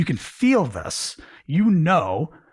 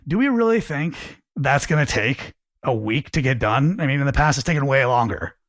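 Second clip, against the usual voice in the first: judgmental tone. Shown as a demonstration. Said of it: "the first way is the judgmental way".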